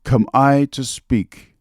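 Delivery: lightly acted funeral oration, measured with long pauses; Mark Antony oration. Speaker recites a famous speech to refresh listeners' minds, lightly declaimed. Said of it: "that famous speech by Mark Antony".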